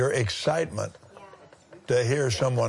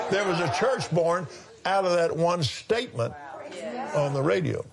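excited; 6 semitones higher than usual. Real, not acted. Laughing wonder at church born.

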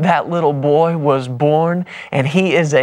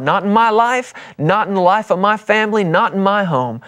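rising declaration; 5 semitones higher than usual. Real, not acted. Preacher building a declaration.

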